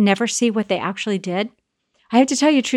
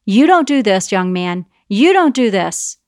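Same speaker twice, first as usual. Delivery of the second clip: put-on louder sharp scolding of a child; mock scolding; 4 dB louder than usual. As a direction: wag a finger at the boy.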